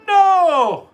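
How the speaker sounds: high, loud shout; flat no. A narrator's reading. Leprechaun Patrick refuses to know Donald, loud high shout. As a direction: bark a stubborn refusal. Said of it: "said Patrick".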